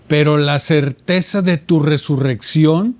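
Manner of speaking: quoting the priest's prayer. Retold or imitated. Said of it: "hace una oración que dice".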